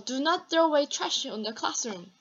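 very slow "Do not", each word separate; stern teacher warning the class; scolding students, stressing Do not; serious emphatic command. Shown as a demonstration. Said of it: "이렇게 강조할 때는 do not".

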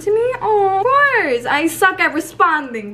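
a tender, teary catch on the words; touched, near tears. Real, not acted. Reading a fan's thank-you note, teary and touched.

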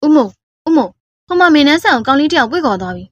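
urgent call-out; alarmed. Acted. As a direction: alert the boss in alarm. Henchman reports the girl taken away.

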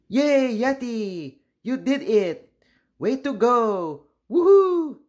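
excited cheering. Acted. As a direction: celebrate Yeti loudly. Classmates cheering in story.

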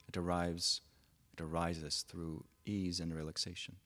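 measured phrases with long pauses between; unhurried meditation teacher, pausing often; guided meditation. Real, not acted. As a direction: guide them gently into stillness, leaving space after each phrase.

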